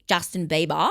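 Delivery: exaggerated Australian vowels on "Justin Bieber"; mock Australian accent. Bieber objecting to Australians' pronunciation, mock Australian accent. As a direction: say the name in a put-on Australian twang. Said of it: "that's what I think it sounds like".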